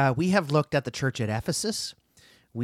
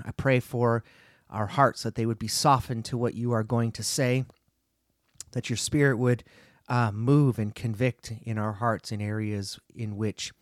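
prayer. Acted. Opening prayer before teaching.

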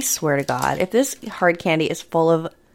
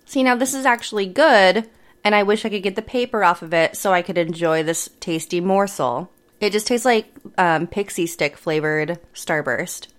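chewing while talking; mouth full. Real, not acted. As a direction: talk around chewy candy. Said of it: "take a bite".

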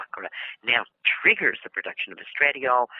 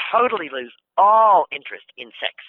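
retold remark; 3 semitones higher, 8 dB louder than usual. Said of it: "she said".

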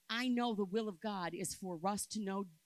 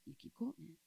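higher, pleading repeat of quoting; rising insistence; 8 semitones higher, 3 dB quieter, faster than usual. Shown as a demonstration. Preacher repeating to the church, higher and insistent. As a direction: lift the repeat up high, urging. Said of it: "so you keep quoting Scripture".

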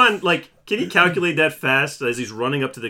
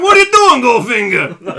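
goofy gangster; 11 semitones higher, 12 dB louder than usual. Retold or imitated. Mocking stereotypical Goldfinger gangsters, hammed-up goon voice. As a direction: play a cartoonish goon, laughing. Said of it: "They're like".

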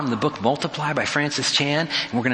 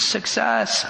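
happy mock scream; 9 semitones higher than usual. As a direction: imitate an all-caps happy scream without the volume. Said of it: "He's screaming happy".

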